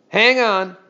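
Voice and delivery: a mild called-out shout; man calling out to hold on; yelled. A narrator's reading. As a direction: call out across the stream to the boy. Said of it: "someone yelled".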